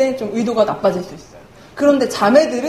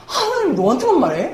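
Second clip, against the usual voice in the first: mock-annoyed, higher-pitched questioning; retold annoyance, pitched up; annoyed retort; 6 semitones higher than usual. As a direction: imitate a friend's irritated challenge. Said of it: "막 짜증을 막 내는 거예요".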